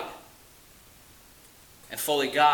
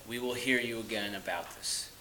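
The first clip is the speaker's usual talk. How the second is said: the reply again, dropped much softer; softer repeat; 4 semitones lower, 10 dB quieter than usual. Retold or imitated. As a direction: let it fall away quietly.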